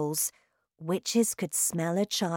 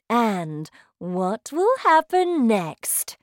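slow, loud commanding witch queen; shouting witch; 5 semitones higher, 7 dB louder than usual. Acted. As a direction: bellow like a terrifying witch queen. Witch's sly pause.

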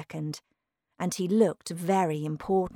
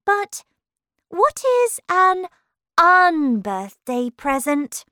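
high-pitched, louder questioning voice; puzzled Alice; 11 semitones higher, 9 dB louder than usual. Acted. Alice asking Humpty about his odd present, puzzled and high.

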